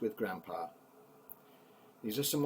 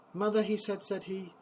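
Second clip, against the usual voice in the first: put-on much higher, louder child's call; calling to mother; 11 semitones higher, 6 dB louder than usual. Little James calling to his mother, high and loud. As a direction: call "Mother" out sharply like a small boy.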